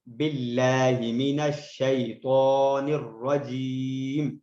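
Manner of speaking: each verse drawn out slowly with a calm breath between; slow, paused recitation. Shown as a demonstration. Teacher showing the proper style, slow recitation with pauses. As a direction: recite unhurried, pausing at each verse end. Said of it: "یہاں آرام سے میں تسلی سے سانس لے لوں".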